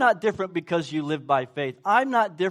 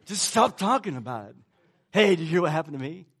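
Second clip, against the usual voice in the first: mock exchange; faster than usual. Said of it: "That's what we say".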